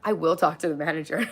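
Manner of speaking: whispered threat to get the manager; mock whisper. To chat, a whispered mock manager threat. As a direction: breathe it like a secret. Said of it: "I really won't".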